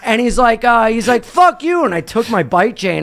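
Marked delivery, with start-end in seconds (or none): 1.2-1.8 high-pitched mock defiance; high, indignant retold curse; retold angry cursing. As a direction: imitate a rival snapping back. Retold cyclist cursing back.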